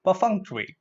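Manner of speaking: "Perfunctory" joined up as per-FUNK-tuh-ree; correct pronunciation. Shown as a demonstration. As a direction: model "Perfunctory" with stress on FUNK. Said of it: "let's look at the syllable breakup".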